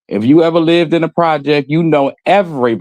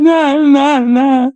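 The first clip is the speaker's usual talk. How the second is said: firm nah; 10 semitones higher, much slower than usual. Real, not acted. Dismissing crying liars.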